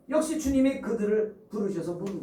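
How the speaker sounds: ordinary delivery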